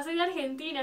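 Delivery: mildly thrilled retold answer; a touch of eager pride; excited. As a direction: re-enact an excited fan's reply. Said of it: "así toda emocionada".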